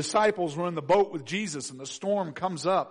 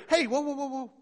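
mock soothing; 7 semitones higher than usual. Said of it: "No one wants to hear".

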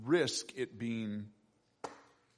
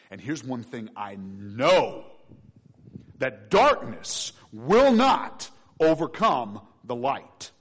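full-force preaching; 5 semitones higher, 13 dB louder than usual. Acted. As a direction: preach it out, defying darkness.

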